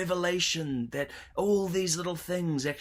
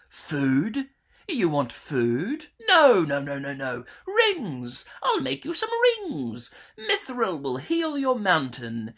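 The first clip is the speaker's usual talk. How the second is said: high, scornful sales-pitch voice; mocking scheming villain; 3 semitones higher, 3 dB louder than usual. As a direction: sneer at them like a smug schemer. Scheming villain mocks the dwarves.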